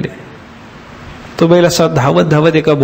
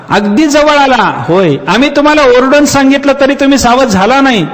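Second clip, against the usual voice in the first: excited villagers; 10 semitones higher than usual. Retold or imitated. Villagers marvel, scolding old man.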